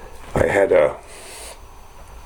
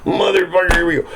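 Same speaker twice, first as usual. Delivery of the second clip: dismayed inner thought; 12 semitones higher than usual. Retold or imitated. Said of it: "I thought".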